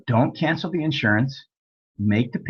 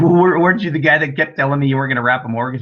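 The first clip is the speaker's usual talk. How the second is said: incredulous; 3 semitones higher, 4 dB louder, faster than usual. Retold or imitated. Incredulous at student's reversal.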